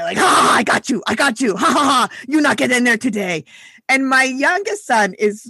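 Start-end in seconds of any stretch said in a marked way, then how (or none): 0.2-3.4 mildly hammed-up gloating yell, imitating husband; mock yell. Husband out the window taunting the squirrel, mock yell. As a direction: imitate a triumphant yell without full volume. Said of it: "he's yelling out the window".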